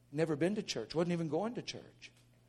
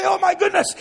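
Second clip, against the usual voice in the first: high, loud outcry; amazed exclamation; 14 dB louder than usual. Acted. Brother recalling his praying, amazed shout. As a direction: shout it, overwhelmed.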